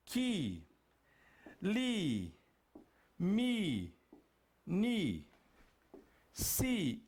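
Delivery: KI, LI, MI, NI, SI, each a long falling "ee"; syllable pronunciation. Shown as a demonstration. Teacher running through the alphabet with I, drawn-out syllables. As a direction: sound out "Ki", "li", "mi", "ni", "si" with pauses. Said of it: "E aqui, professor, fica como?".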